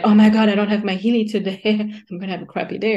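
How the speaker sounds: mock despair, half laughing; mock panicked user. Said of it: "It's like".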